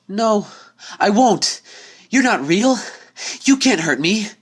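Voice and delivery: high, loud panicked defiance; the unicorn screaming at the door, high and terrified; terrified cry. Acted. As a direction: shout back in mortal terror. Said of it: "voice shaking in mortal terror".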